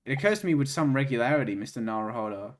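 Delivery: measured formal courtroom speech; game character voice. Acted. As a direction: read it as a stately judge, unhurried. Reads game character lines.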